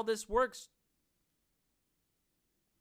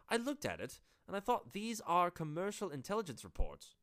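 put-on half-hearted British accent. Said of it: "That's not even a good accent".

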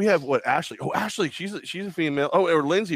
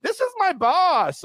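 high, slow sing-song introduction; mock girly introduction; 4 dB louder, much slower than usual. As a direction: drag it out like a giddy girl. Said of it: "it's like".

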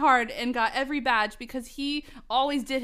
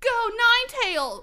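high-pitched trainer's command; battle yell; 8 semitones higher, 4 dB louder than usual. Acted. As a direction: yell it like sending out a monster. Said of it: "who's yelling this".

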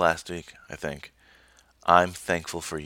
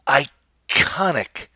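dramatic whisper; 8 semitones higher, 7 dB louder, much slower than usual. Acted.

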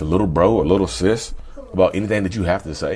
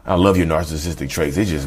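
mock sweet praise. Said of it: "find a way to paint it in a good light".

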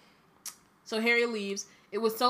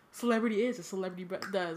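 Lockhart impression; 3 dB quieter, faster than usual. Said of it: "I can picture Kenneth Branagh in my head with his smile".

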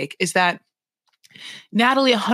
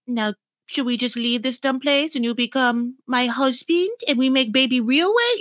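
mock accent, Natalie; 4 semitones higher than usual. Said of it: "then just be like".

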